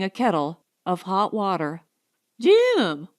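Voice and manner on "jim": wild call. Acted. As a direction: shout his name wildly. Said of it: "she called wildly".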